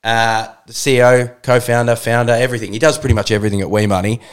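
breathless intro read; rushing through out of breath; running out of air. Real, not acted. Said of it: "I'm running out of breath".

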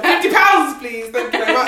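gleeful money-grab excitement; excited. Retold or imitated. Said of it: "I'm there like".

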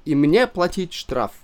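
put-on broken Russian with a German accent, high; a pompous German shop owner. A narrator's reading. German owner insists the gentleman must pay, in broken accented Russian.

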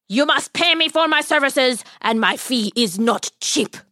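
a lightly voiced odd little man; a hint of a sly little stranger; strange tiny man. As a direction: greet them as a mysterious little man. Tiny man's voice.

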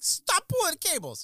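put-on high, loud, slowed yell at the kids. Dad yelling at his kids to stop pulling cables, loud and slow. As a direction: bark it at kids tugging the bike cables.

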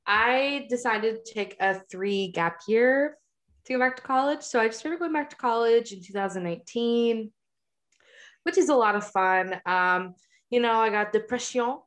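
talking while crunching ice; words round a mouthful of ice. Real, not acted. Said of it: "Sorry, I'm crunching on some ice".

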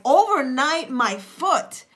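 indignant protest, punching the key words; worked-up, emphatic objection; really upset. Acted. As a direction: act out someone offended at being underestimated. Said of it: "the person gets really upset".

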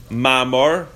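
ma'amor ending in a rounded "-or"; ma'amor, kamatz "o" sound at the end; kamatz vowel. Shown as a demonstration. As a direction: say ma'amor with an "aw" in the last syllable. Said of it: "both with the word memor, uh, uh, uh, with the word, uh, with the kamatz".

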